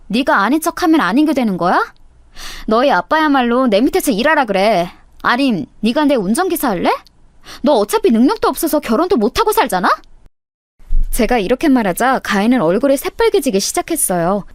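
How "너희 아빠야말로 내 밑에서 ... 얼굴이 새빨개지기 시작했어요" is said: ordinary delivery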